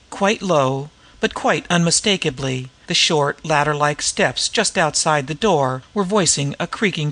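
measured, articulate audiobook reading; story narration. A narrator's reading. Gentleman pleading to help the White Mall, measured story reading. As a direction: read the story aloud with careful diction.

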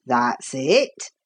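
low, encouraging workman's voice. A narrator's reading. Carpenter pleased with the boy's guess, encouraging. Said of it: "said the man encouragingly".

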